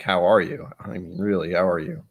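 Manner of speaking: soft, earnest check-in; quiet, genuinely meant question; sincere. Shown as a demonstration. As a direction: ask it low-key and truly mean it. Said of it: "I have to mean it".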